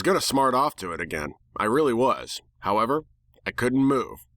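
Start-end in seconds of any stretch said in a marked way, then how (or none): none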